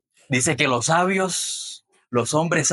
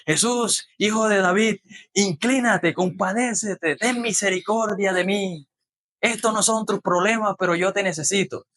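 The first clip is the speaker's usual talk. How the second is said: mild pleading cry; 3 semitones higher than usual. Retold or imitated. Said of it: "quizás este hombre gritaba".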